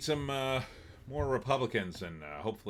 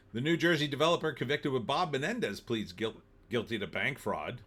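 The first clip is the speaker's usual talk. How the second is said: hiccups; 3 semitones higher than usual. Real, not acted. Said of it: "Oh my God, I got the hiccups".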